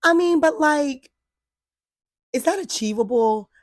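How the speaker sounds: high, loud hesitant pushback; cautious therapist. Retold or imitated. Imitating her therapist doubting the big goal. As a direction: gently question the plan. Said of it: "She was just like".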